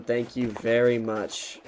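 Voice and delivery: slow, dry sarcastic thanks; sarcastic thanks to the rude tow guy. Retold or imitated. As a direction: thank him without meaning it. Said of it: "in a very sarcastic tone".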